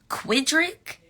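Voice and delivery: high, rising Quidrick; incredulous squeak. Real, not acted. To the chat, squealing the silly name. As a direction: squeak it like it's absurd.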